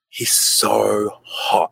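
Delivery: imitating a smitten girl, drawn out very slowly; mock swoon, words stretched right out. Girl gushing to wingman about his brother, mock swooning.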